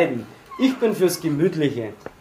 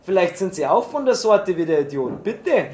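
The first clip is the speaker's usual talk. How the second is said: irritated; 3 semitones higher than usual. Acted. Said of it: "sagte gereizt".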